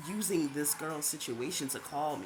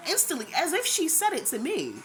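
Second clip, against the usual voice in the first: louder and higher, indignant; worked up, higher and louder; indignant outburst; 11 semitones higher, 5 dB louder than usual. Real, not acted. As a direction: exclaim it like it was aimed at you. Indignant at the girl's words.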